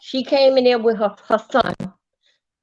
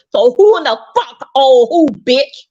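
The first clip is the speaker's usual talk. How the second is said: louder, heated demand; furious retort; 5 dB louder than usual. Real, not acted. A tenant angrily accusing his landlady over rent. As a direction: throw it back at her.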